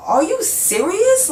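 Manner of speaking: are you serious stretched high and slow; incredulous, slow and high. Retold or imitated. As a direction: drag it out, high with disbelief. Friend suddenly turns on her.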